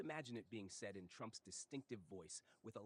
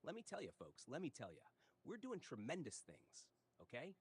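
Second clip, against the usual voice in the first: Trump impression. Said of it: "phonetic impersonation of Trump's speech".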